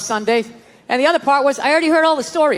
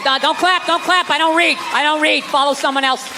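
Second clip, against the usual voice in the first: mock church teacher; 4 semitones higher than usual. Mocking church teaching kids.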